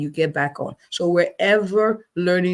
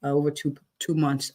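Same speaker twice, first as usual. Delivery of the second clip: no excitement; 3 semitones lower, 3 dB quieter than usual. Retold or imitated. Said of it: "there's no sense of, you know, excitement".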